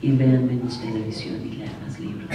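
Daria voice. Retold or imitated. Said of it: "Daria, sí es cierto".

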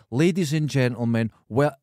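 announcer voice. Shown as a demonstration. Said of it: "And I say".

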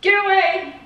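high mock yell; retold sleep outburst. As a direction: act out a sleeper shouting someone off. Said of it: "Yeah, you said".

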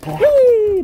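high, loud playful squeal; excited squeal. Real, not acted. Owner squealing to dog at play, excited. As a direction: squeal with glee as the dog runs.

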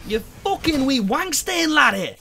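loud, high, drawn-out cursing; slow, high-pitched yell of outrage at an enemy; outraged shouting. Real, not acted. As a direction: stretch out every insult, shrieking. Insulting the enemy who attacked.

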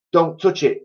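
high, urgent warning; urgent cry. A narrator's reading. Missus Twit warning her husband, urgent high cry. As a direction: stop him before he touches it. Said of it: "cried Missus Twit".

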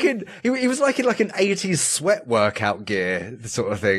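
high, gushing and delighted; excited. Real, not acted. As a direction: rave about the cute guitarist. Gushing over cute guitarist.

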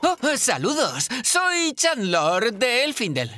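formal elf greeting. Acted. Elf introduces himself formally.

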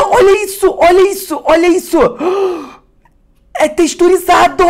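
very high, loud cries of amazement; ecstatic shouting. Real, not acted. Feeling the textured foil on camera, ecstatic high shouting. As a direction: scream with pure collector's joy.

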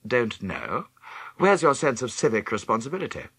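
put-on repeating the boy's words back incredulously; mock disbelief. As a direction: echo the boy, disapproving. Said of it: "Don't know, sir".

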